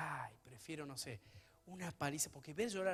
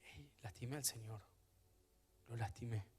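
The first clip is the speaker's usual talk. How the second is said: hushed confession; 3 semitones lower, 8 dB quieter than usual. Acted. Voicing repentant believer's inner cry.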